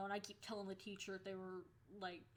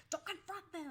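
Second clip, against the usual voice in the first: higher pleading cry; mock worried friend; 10 semitones higher than usual. Friend begging her not to confront them, pleading. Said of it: "She's like".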